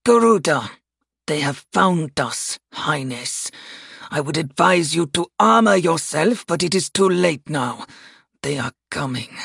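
curt military report to a superior; grim, measured officer's warning; stern formal address to royalty; gruff commander Call. Acted.

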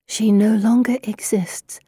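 haunted whisper. Acted. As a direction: breathe it out, voiceless and eerie. Heroine echoes diary, haunted.

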